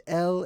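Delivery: El with a short E, as in "bell"; pronunciation variant. Shown as a demonstration. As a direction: say El as "ell". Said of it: "could be pronounced".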